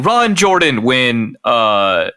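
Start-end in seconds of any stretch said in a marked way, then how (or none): 0.0-0.8 shouted higher, louder; fan's mock shout from the stands; mock yell. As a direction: call it out like a fan in the stands.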